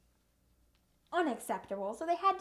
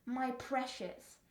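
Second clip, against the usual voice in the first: slow, soft mock-tender quote; Cloudstar; 5 dB quieter, much slower than usual. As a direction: imitate him, drawn out and hushed. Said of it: "the only thing that comes out of his mouth".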